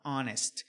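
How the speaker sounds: "honest" begun on a vowel sound; silent H. Shown as a demonstration. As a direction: say honest as "onest". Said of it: "então é um som de vogal".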